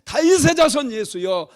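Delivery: high, loud cry to Jesus; acted beggar's insistent shout. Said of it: "더욱 소리를 높여가지고".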